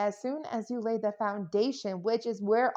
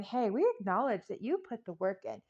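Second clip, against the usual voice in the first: spirit praising loudly; 5 semitones higher, 7 dB louder than usual. Retold or imitated. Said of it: "Spirit is looking at you going".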